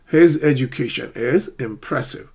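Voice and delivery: "education" and "impressive" carrying the beats; careful example sentence with clear stressed syllables; sentence-stress model. Shown as a demonstration. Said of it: "Underline the stressed syllables".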